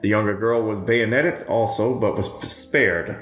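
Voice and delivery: measured, grave reading of a quote; a sober read of a witness account; solemn testimony reading. Acted. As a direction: read it steady and somber.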